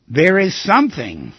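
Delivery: slow, deliberate dictation; measured delivery with a pause between phrases. Shown as a demonstration. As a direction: say it phrase by phrase for someone writing it down. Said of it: "you should write these down exactly as I tell you".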